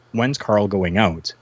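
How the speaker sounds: slow, measured retold question; insistent repeat. The Patriot pressing the promoter, slow and insistent. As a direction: repeat it slowly, ignoring the answer.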